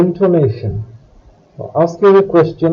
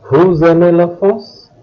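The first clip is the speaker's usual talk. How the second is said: "Vous aimez la France?" with a rise at the end; "Vous aimez la France?" as a spoken yes-or-no question; question intonation. Shown as a demonstration. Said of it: "making your voice go up".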